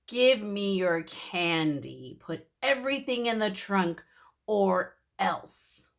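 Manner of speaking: slow, lightly voiced monster threat; a hint of a spooky villain; mildly menacing mummy; menacing demand.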